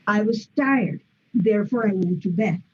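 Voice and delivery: plain declarative fall twice; falling statement tune. Shown as a demonstration. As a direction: fall on tired, quick therefore, down at the end. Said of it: "it has to be like that".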